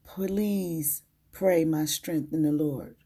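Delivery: tired, weak voice. Real, not acted. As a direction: speak through a worn-out voice. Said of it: "My voice is weak today".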